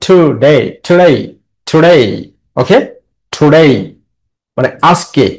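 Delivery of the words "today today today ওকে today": today repeated with the -day syllable stressed. Shown as a demonstration. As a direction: drill today, hitting -day each time. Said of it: "আর ডেটা হচ্ছে stress".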